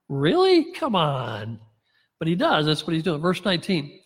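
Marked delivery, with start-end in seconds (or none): 0.1-1.6 disbelieving scoff at the excuse; incredulous. Real, not acted. Preacher mocking Ahab's self-pity to the congregation, incredulous.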